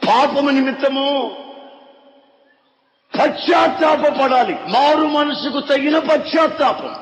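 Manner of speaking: shouting preacher's call to repent; preaching at full force. Acted. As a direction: proclaim it to the whole church.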